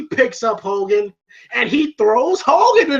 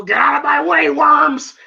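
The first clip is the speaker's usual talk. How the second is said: Hogan shout; 6 semitones higher, 4 dB louder than usual. Retold or imitated. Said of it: "you hear Hogan go".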